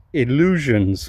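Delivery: "illusions" set apart with weight; stress on illusions. Real, not acted. Owner admitting hopes for the parts car, stressing "illusions". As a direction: lean deliberately on "illusions". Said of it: "I stress that word".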